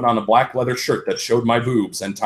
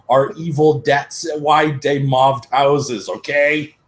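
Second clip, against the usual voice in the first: put-on higher, whiny teen author defending herself; mock author voice; 4 semitones higher than usual. Reader mocking the author's note to flamers, whiny. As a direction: lightly sneer it like a touchy fan writer.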